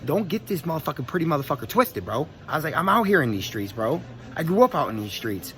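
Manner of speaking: worked-up boast to a doubter; indignant warning. Retold or imitated. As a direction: set him straight, pitch riding up. Retold quarrel, standing up for himself.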